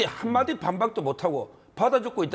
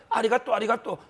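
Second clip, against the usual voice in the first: laughing mock Japanese. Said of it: "일본 사람 흉내를 내면서".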